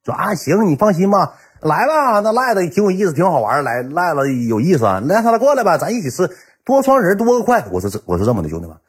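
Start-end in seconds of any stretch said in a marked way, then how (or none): 0.1-7.6 mock hearty welcome. Classmates voiced welcoming the friend.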